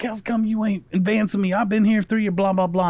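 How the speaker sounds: a spoiled kid's mock outburst at his teacher; mock yelling student. Spoiled student storming at the master, high mock yell. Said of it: "starts yelling".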